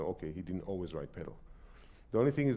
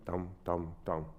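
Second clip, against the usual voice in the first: rushed tam; 2 semitones lower than usual. Shown as a demonstration. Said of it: "sounds a bit rushed".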